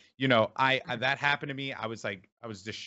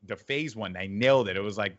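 ordinary talk

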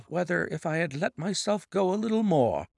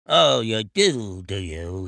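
slow, loud menacing snarl, dropping low; 5 semitones lower, 5 dB louder, slower than usual. Acted. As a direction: snarl it back at the young master. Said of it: "he snarls".

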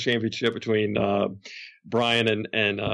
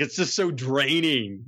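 ordinary delivery

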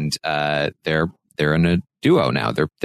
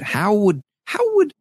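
disbelief; 13 semitones higher than usual. Retold or imitated. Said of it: "Turner's like".

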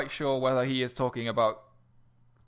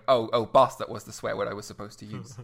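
put-on northern accent; 6 dB louder than usual. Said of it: "someone coming from the north".

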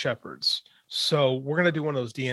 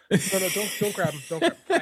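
scolding dogs; 6 semitones higher than usual. Real, not acted.

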